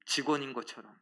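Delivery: usual speaking voice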